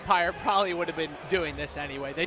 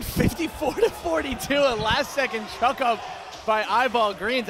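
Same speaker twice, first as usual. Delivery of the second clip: excited buzzer call; 2 semitones higher, 3 dB louder than usual. Real, not acted. Buzzer-beater call after laugh.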